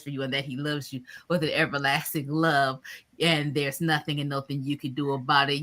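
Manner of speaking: low, measured benediction; sign-off blessing. Real, not acted. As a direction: bless the viewers as you close. Closing blessing to viewers.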